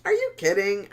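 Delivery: shouted high disbelief; loud, high disbelieving Dude; incredulous dude. Retold or imitated. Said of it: "And I was like".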